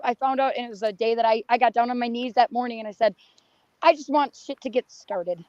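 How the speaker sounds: hoarse, worn-out voice; rough voice that is giving out; losing her voice. Real, not acted. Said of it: "Sorry, I'm losing my voice".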